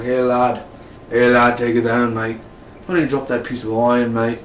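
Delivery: lightly put-on Irish gangster; playful Irish-accented order to disarm; mock Irish accent. Irish mobster telling the captive to disarm, mock Irish accent. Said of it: "I'm not making fun of the Irish".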